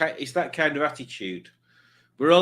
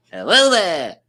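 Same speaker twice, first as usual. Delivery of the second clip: a light, louder put-on hello there; lightly voiced show host saying hello; imitating greeting; 5 semitones higher, 8 dB louder than usual. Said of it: "He does talk like that".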